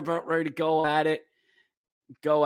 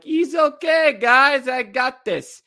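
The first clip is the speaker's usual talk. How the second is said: high, louder cocky reassurance; cocky confidence; 10 semitones higher, 6 dB louder, slower than usual. Retold or imitated. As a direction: brush them off, full of himself. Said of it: "LaPierre's like".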